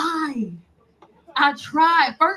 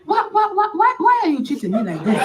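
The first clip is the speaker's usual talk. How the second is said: pleading, whining African suitor; mock plead like a lovesick man; voicing the suitor's voice note. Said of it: "This is the voice note".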